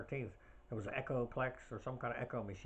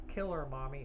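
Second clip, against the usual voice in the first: Mrs. Voorhees; 5 semitones higher, 4 dB louder than usual. Retold or imitated. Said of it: "there's a close-up on Missus Voorhees".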